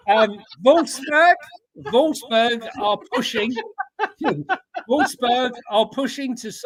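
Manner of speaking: high voice breaking into laughs; laughing while talking. Real, not acted. Co-host reads transfer news after the joke, laughing. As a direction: try to read on through giggles.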